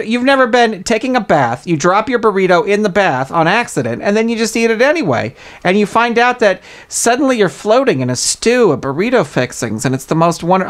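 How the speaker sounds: seduce them with burrito talk; mock sultry. Comic speaker praising soggy burritos, low and seductive.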